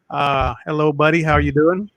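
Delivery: crackling mic distortion; clipping distorted mic. Real, not acted. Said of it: "your mic is crackling".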